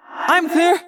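high call to the group. Acted. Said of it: "Axe called".

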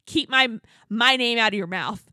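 retold confrontation. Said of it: "people just started screaming at each other".

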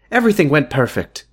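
amateur Northern Irish doctor; doctor's news in a put-on Irish accent. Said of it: "your Northern Irish accent is better than my".

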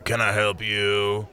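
slow husky reptile drawl; slow, husky lizard voice; husky hissing iguana. Acted. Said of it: "The iguana's voice dripped with husk and slithers".

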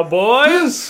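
booming creature voice in their skulls; eerie voice in the head. Acted. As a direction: speak straight into their minds. Sentient news speaks into skulls.

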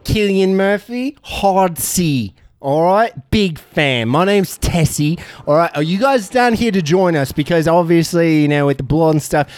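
a light Birmingham gangster voice; a hint of a Peaky Blinders accent. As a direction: recruit them like a Peaky Blinders boss. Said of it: "you're trying to be on Peaky Blinders".

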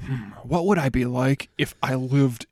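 slow, musing fake American accent; drawn-out pretend American accent; mock American accent. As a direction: put on American vowels, pondering. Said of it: "This is my American accent".

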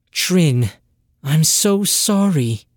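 sorry apology. Acted. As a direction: say it with real regret. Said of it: "Sess said".

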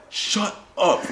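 high-pitched imitation of an annoyed player; retold exasperated snap; mock angry retort. Retold player snapping at a heckler.

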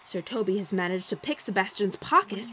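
excited ringside announcer; fight commentary. A narrator's reading. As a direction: call the round like a boxing match. Narrator play-by-play.

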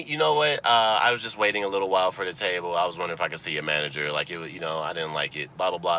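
calm courteous request; polite complaint. Shown as a demonstration. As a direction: model a reasonable customer. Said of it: "Tell me".

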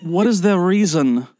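a hint of a condescending sceptic; mock new atheist. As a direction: play a sneering new atheist puzzled by women. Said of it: "this is my impression of a new atheist".

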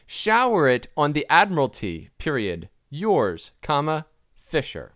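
reading out every punctuation mark; dictating. Shown as a demonstration.

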